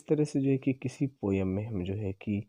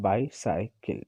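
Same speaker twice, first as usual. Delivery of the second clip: bicycle split into bi, cy, cle with weight on bi; stress on first syllable; much slower than usual. Shown as a demonstration. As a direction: lean on bi in bicycle, then two lighter beats. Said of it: "followed by two unstressed syllable".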